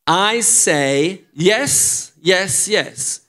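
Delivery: "I say yes" drawn out very slowly; slow translation. Shown as a demonstration. Pastor translating the chorus for the congregation, very slowly. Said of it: "No, je dis".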